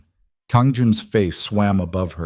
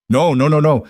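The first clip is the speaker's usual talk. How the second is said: high, louder frantic denial; panicked gasping; 7 semitones higher, 5 dB louder than usual. Acted. Kang Jun seeing Elena shot, frantic gasped no. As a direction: gasp it out in disbelief. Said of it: "he gasped".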